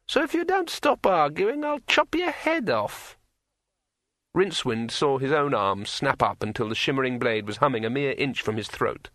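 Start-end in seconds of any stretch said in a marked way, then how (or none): 0.1-3.2 like a finger round a wine glass rim; ringing metallic sword voice. A narrator's reading. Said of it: "in a voice like the sound of a finger dragged".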